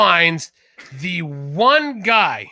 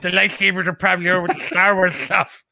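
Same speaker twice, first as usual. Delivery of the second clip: mimicking a lisp. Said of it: "when she mimicked him".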